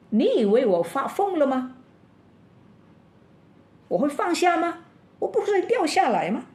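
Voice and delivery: high, loud frantic yell at the rescuer. Retold or imitated. Man dangling over a cliff yells at his rescuer, high and frantic. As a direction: shout back in disbelief as if he's gone mad. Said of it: "那个人听了以后就大声地狂叫".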